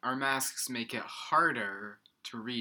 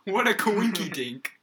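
silly cutesy voice; 8 semitones higher, 8 dB louder than usual. Pretend. Playful cutesy phrase.

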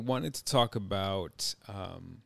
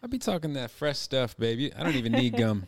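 higher, hammed-up cheesy pickup line; embarrassing dad joke; 4 semitones higher, 3 dB louder than usual. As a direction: sell the corny line with a grin. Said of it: "that sounds like a dad joke".

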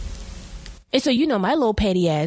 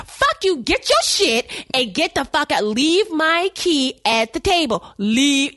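retold fury; 5 semitones higher, slower than usual. Woman throwing out the cheating boyfriend, angrily. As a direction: bark him out of the house. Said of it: "but I am going in".

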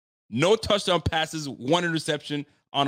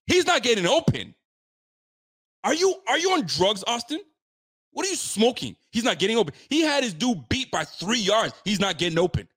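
frustrated fan shouting at the screen; exasperated outburst; 7 semitones higher than usual. Real, not acted. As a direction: vent straight at him in disbelief. Angry rant at the quarterback.

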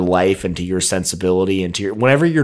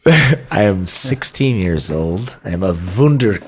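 frog voice. Pretend. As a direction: croak it out like a frog. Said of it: "Sorry, it's the frog voice".

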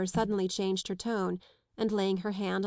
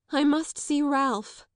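higher, louder, slow wail; 6 semitones higher, 5 dB louder, slower than usual. A narrator's reading. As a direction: plead it out in slow anguish. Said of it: "Isabel wailed".

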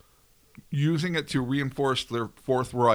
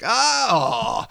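put-on German accent; 5 semitones higher, 4 dB louder than usual. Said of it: "that was a better German accent than you did".

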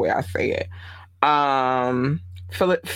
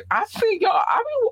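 excited yell. Real, not acted. Excited shoutout to Atlanta.

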